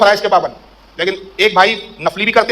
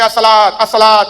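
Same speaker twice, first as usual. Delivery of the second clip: calling out. Retold or imitated. Prayer society's leader calls people to prayer, imitated calling out. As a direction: stretch the words like summoning people to prayer. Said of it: "آواز لگاتے چلے".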